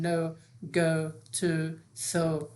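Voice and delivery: "no, go, to, so" each ending in a long او; final O as او. Shown as a demonstration. Teacher listing word-final O examples, each as او. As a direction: model "no, go, to, so" one by one with final او.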